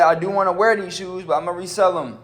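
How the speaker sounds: acted self-talk. Vlogger voicing his own thinking on reselling shoes, high-pitched self-talk. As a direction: pitch it up high, as if arguing with yourself.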